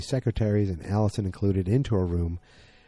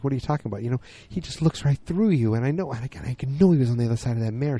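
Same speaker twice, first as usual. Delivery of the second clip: higher, pressed, tumbling out fast; distressed venting; 5 semitones higher, much faster than usual. Retold or imitated. Allison complaining to Peggy about Don, high distressed rush. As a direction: let the hurt spill out quickly, pitched up.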